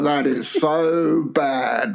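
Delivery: long-drawn mock tutting; mock disapproval. Teasing co-host who laughs then objects, slow mock disapproval. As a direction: draw it out slowly, imitating a scandalised co-host. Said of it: "then laugh when I say and go".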